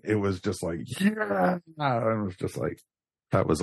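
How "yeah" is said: high drawn-out mock cheer; imitated cheering. Fan imitating everyone cheering at the reveal, high mock cheer. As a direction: imitate a cheering crowd without raising the volume. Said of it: "Everyone was cheering".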